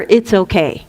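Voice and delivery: unhurried reassurance, drawing the words out; lightly acted easygoing calm; chill elder. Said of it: "They're chill".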